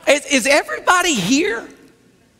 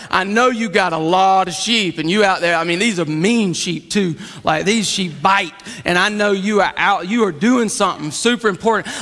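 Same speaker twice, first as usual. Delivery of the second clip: conciliatory big brother; 7 semitones lower than usual. Acted. Models kinder big-brother talk.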